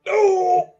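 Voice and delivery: high, loud "No!"; shocked shout. Acted. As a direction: yell it in disbelief. Outburst at the nuts joke.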